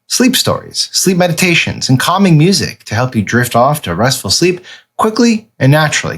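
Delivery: smooth sponsor read, paced and upbeat; friendly podcast ad read. Acted. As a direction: sell the app like a host-read ad.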